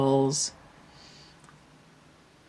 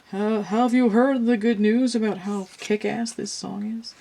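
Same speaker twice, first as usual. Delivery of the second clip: eager herald; 6 semitones higher than usual. Acted. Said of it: "it's like".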